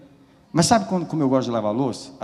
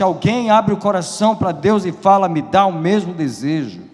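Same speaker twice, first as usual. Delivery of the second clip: high, loud, urgent pulpit cry; preaching at full force; 9 semitones higher, 7 dB louder than usual. Real, not acted. Preacher calling church to close eyes and pray, fervent shouting. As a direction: preach it loud, pleading with the congregation.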